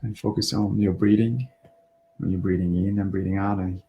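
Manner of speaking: calm, unhurried breathing guidance with pauses; relaxed meditation voice, slightly hushed, phrase by phrase; guided meditation. Real, not acted. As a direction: gently guide listeners through their breathing.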